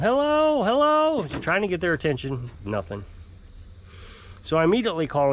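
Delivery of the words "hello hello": high-pitched imitation of calling hello; mock yell, pitched way up; retold yelling. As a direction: call out as if into a silent phone. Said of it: "I kept yelling".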